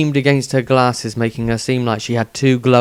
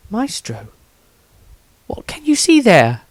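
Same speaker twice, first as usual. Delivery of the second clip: put-on higher, gentle, reassuring young woman's voice; young priestess; 11 semitones higher than usual. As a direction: soothe the halfling, polite and calm. Rosandria asks Maestro.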